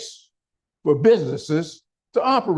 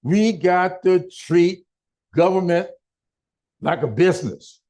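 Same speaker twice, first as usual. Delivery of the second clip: mocking slogan; 3 semitones higher than usual. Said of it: "making headlines saying".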